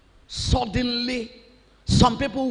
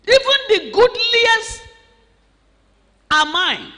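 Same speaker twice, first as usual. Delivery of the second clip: arrogant king's demand; 4 dB louder than usual. Acted. Preacher voicing Ben-Hadad's demand.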